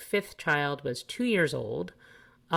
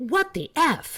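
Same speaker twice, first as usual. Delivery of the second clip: mock, very high, shrill, loud, startled anger; 13 semitones higher, 5 dB louder than usual. Quoting a child's lesson on saying what the f, mock surprised and mad. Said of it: "you have to say it like this: ... You're both surprised and mad".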